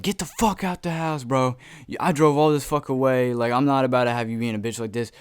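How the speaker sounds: retold yell. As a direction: re-enact yelling at him, voice jumping up. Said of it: "I'm yelling at him through the window".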